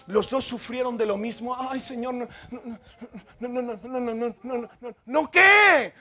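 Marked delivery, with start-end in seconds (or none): 1.6-5.3 imitando a un Moisés apocado, bajito; excúsate con una retahíla de noes en voz baja; objeción apocada. Retold or imitated. Moisés se excusa ante Dios. 5.3-5.9 grito corto y agudo; réplica tajante. Retold or imitated. Réplica tajante a las excusas.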